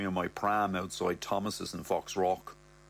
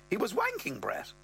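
higher mother voice, rising high at the end; mother's voice; 11 semitones higher than usual. Acted. Mother tells Brett about Ross's libido, in a higher voice. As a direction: voice the mother, pitched up and prim. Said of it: "she goes".

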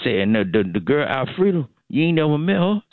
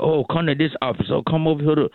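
higher, eager office calls; excited coworkers; 6 semitones higher than usual. Retold or imitated. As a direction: beckon everyone over like he's a celebrity. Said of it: "everybody gonna be like".

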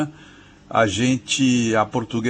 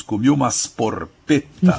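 joking Brazilian-Italian; 3 semitones higher, 3 dB louder than usual. Retold or imitated. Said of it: "muita gente no Brasil brincando diz".

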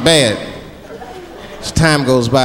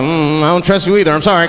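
mock distrust. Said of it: "I was like".

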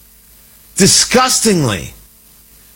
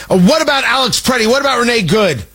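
retelling a congressman's shouting in a higher, mock-heated voice; mild mock yell; 7 semitones higher, faster than usual. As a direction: ham up a heckler's yell in a raised pitch. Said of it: "And, and screaming".

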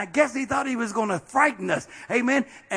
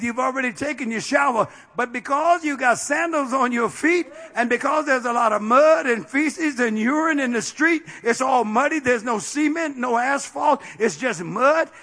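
normal talking voice

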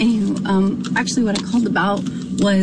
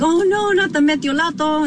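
mock dread; 7 semitones higher than usual. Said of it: "you would be like".

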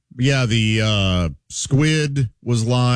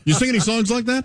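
laughing; 9 semitones higher, faster than usual. Real, not acted. Laughing while asking, joking.

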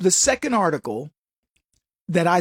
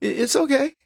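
high-pitched, dismissive dare; unbothered SWAT reply; 6 semitones higher than usual. Acted. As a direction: call the bluff, pitched way up. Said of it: "And swat says".

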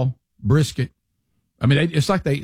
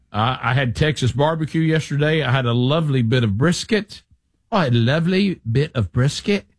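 English fan quote. Retold or imitated. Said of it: "And he says".

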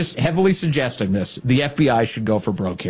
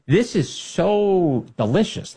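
gloating; 8 semitones higher, much slower than usual. Real, not acted. Gloating over the fiasco.

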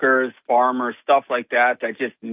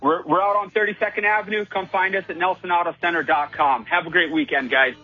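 quick, higher auctioneer patter; 5 semitones higher than usual. Pretend. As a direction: rattle it off like an auctioneer. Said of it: "get your auctioneer voice out".

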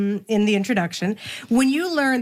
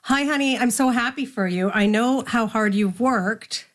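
imitating mom. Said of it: "so she says".

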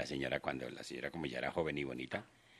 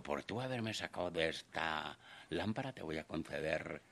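genie voice; 4 dB quieter than usual. Retold or imitated. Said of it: "dijo el genio".

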